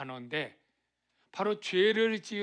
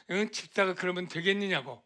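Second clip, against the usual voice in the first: mildly raised, scolding voice; mock indignant yell; 4 dB louder, faster than usual. Church member rushing over to confront a deacon, mock indignant yell. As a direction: act out a half-hearted telling-off. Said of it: "막 소리 지르고".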